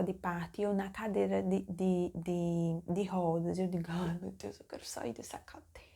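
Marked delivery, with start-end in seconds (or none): 3.9-5.8 hushed imitated complaint, fading to a whisper; softly acted-out inner plea; desperate muttering. Patient stuck in a wheelchair wishing to escape, hushed plea. Retold wish while in wheelchair.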